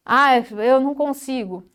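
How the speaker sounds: quem desiste antes de tentar; desanimado. Shown as a demonstration. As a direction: diga como quem se dá por vencido. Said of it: "Olha a diferença do "eu não consigo". (desânimo leve de quem não consegue)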